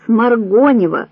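loud call from the line; a name shouted back across a prison corridor. A narrator's reading. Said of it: "выкрикивала из строя".

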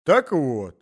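put-on a garrulous old man starting a tale; old man's voice. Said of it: "начал старик".

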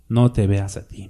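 whispered, intimate urging; a whispered aside to the brothers; whispered plea. Real, not acted. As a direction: lean in and whisper it.

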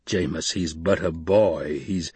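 calm him down, slowly; soothing. Acted. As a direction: Stilgar calming an angry fighter, soothing and slow. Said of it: "the soothing in the rumbling voice".

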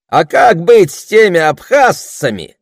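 high, loud call from a crowd; shouted question. A narrator's reading. Someone in the crowd interrupting the orator, shouting. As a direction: throw it out over everyone. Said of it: "вдруг кто-то выкрикнул из толпы".

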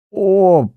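high, choking gasp; a strangled gurgle of pain; dying man's gurgling cry. Acted. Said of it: "закликотав".

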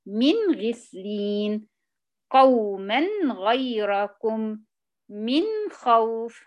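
"من غسلين" slow, with a clear nun and no ghunnah; "من خوف" with the nun pronounced plainly, no nasal hum. Shown as a demonstration. Teacher reciting examples slowly without ghunnah. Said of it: "ولا داعي للغنة".

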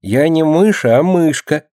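put-on high, gentle little-girl voice; meek correction. A narrator's reading. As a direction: correct him sweetly with a smile. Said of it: "кротко улыбаясь, поправила его". (кротко, высоким голоском)

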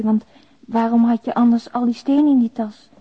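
usual speaking voice

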